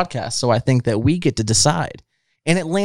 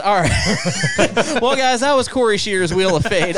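talking through laughter, much higher; laughing; 8 semitones higher than usual. Real, not acted. Host cracking up while wrapping up the song. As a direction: barely hold it together.

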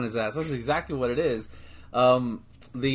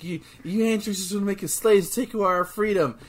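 mock Trunks lecture; 4 semitones higher than usual. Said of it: "talking down to him".

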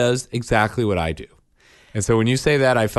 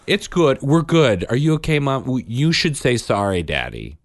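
imitating a take-charge fixer, higher and louder at first; brisk mock peacemaker, pitched up; child playing the adult; 5 semitones higher, 3 dB louder than usual. Dad mimics son performing as the adult, reassuring everyone. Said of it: "turns into the adult".

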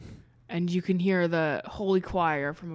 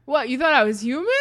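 mocking alien; 6 semitones higher, 9 dB louder, much faster than usual. Alien God mocking Rhonda.

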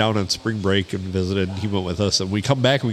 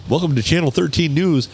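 local news anchor; 4 semitones higher than usual. Acted. Playing the local channel's newsreader, mock anchor delivery. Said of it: "everybody on the news sounds just like I do".

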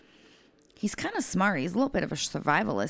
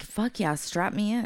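raised, punchy imitation of enthusiasm; mock eagerness; 5 semitones higher than usual. Eager patient welcoming the gurney, imitated mock excitement. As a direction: sound thrilled, teasing your co-host.

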